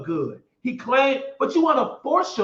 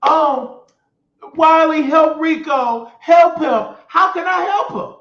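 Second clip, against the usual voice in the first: mocking the crowd; 5 semitones higher, 6 dB louder, slower than usual. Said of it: "people was like".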